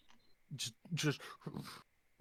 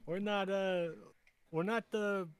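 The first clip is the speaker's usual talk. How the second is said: goblin parley; 7 semitones higher, slower than usual. Acted. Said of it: "I'm gonna yell in Goblin".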